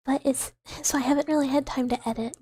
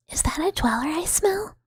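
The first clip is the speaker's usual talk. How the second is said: a sly creature catching a scent; hushed sniffing whisper; 4 semitones higher than usual. Acted. Creature sniffing out a dweller, eager whisper. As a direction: whisper it, nose up, sniffing the air.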